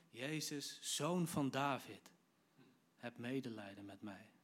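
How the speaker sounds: measured call, dropping off at the end; restrained retelling of a beggar's call. Retold or imitated. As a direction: call out slowly, then ease down into the plea. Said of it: "hij begint te roepen".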